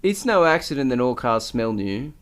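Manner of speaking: steady article read; reading aloud. Acted. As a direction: read it out like a news piece.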